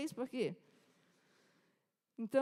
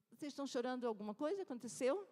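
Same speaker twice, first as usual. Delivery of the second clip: Jesus questioning; 5 semitones higher than usual. Acted.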